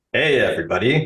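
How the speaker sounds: put-on announcer-style delivery. Podcast host tries out an announcer voice for the intro. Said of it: "Let me try to do an announcer's voice".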